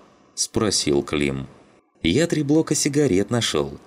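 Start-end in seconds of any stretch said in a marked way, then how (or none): 2.0-3.8 bright, pleased announcement; proud of his find; a touch of glee; beaming happily. A narrator's reading. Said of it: "засиял счастливой улыбкой Шум".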